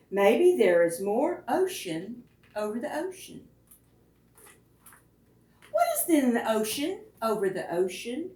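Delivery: gentle wondering picture-book read-aloud; reading aloud to children. A narrator's reading. Reads second picture book aloud.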